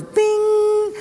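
high ecstatic cry of relief, building to a shout; joyful shout. Retold or imitated. Pastor reliving finally finding cell service, ecstatic shout. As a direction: burst out praising like a lost man finding signal.

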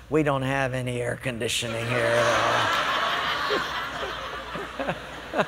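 low, soft confiding punchline; sly secret. Retold or imitated. Waiter confiding a secret to the diner, low and soft. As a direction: let him in on the joke quietly.

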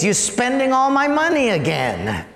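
acted marital nagging; accusing husband. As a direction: scold your wife over her shopping. Acts out husband accusing wife.

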